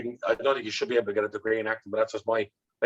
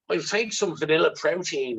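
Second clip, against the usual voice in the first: put-on posh South Dublin accent; 4 semitones higher than usual. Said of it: "this kind of upper class Dublin, South County Dublin fella".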